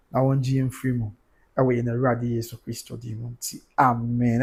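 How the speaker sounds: earnest, measured prayer to God; spoken prayer. Real, not acted. Leads a closing prayer.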